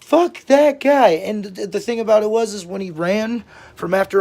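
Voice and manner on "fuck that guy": loud, high, drawn-out mock outrage; angry dismissal. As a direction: punch out each word in retold anger. Repeats friend's angry reaction.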